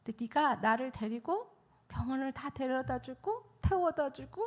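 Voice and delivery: hushed, breath-soft gratitude; God's gentle thanks. Retold or imitated. God thanking the helper for rides, soft hushed voice. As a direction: softly thank someone as God would. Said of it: "그러시는 거예요".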